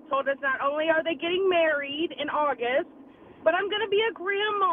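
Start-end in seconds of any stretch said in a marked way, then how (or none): 3.4-4.7 teary. Real, not acted. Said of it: "I'm trying not to cry".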